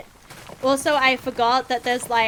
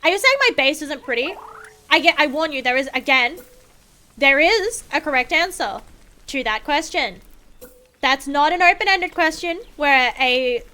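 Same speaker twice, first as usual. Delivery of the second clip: mock threat; 2 semitones higher, 3 dB louder than usual. Playful threat to chat.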